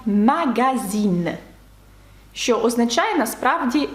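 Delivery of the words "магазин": slow French "магазин" with hard g; French pronunciation. Shown as a demonstration. Teacher giving the word for journal, slow French pronunciation. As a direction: draw out "магазин" as French magazine, ending in a clear n. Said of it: "Чи таке слово, як".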